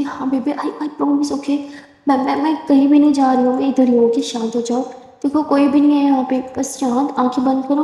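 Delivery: put-on calm her down gently like a frightened child; soothing. Simran soothing scared Durga.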